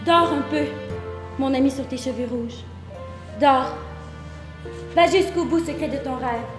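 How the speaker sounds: gently recited, subdued; tender lullaby poem. Acted. Speaker bidding a red-haired lover sleep, promising no war, tender.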